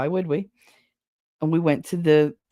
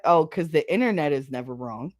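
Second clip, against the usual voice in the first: dry, understated sarcasm; 4 semitones lower than usual. Acted. Mocking those who trust the internet, dryly sarcastic. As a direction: say it with knowing irony, fairly low. Sarcastic first take, then exaggerated repeat.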